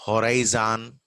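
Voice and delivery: horizon as "ho-rai-zaan"; Telugu-English variant. Shown as a demonstration. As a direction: say "horizon" with a full first vowel.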